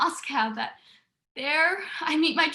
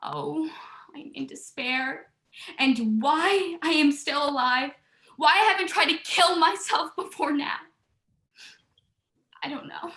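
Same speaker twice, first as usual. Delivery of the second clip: crying despair. Acted. Sister telling her sister of her despair, near tears. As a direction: hold back tears as the words fade. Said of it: "Don't cry".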